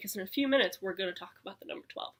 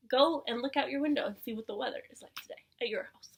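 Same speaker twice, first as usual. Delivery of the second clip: soft whispered instructions; 4 dB quieter than usual. Acted. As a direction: whisper to the kids.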